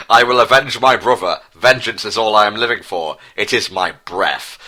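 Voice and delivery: brooding vengeful prince; obsessed villain. Acted. Prince Harry vows revenge to his father, villain voice. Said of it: "said Prince Harry with madness obsession".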